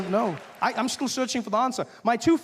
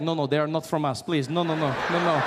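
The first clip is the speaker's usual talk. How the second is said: put-on European accent; 4 semitones lower than usual. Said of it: "Europeans would be like".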